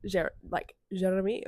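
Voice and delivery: imitating Jean's accent on Jeremy; a light go at Jean's accented Jeremy. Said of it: "in his accent".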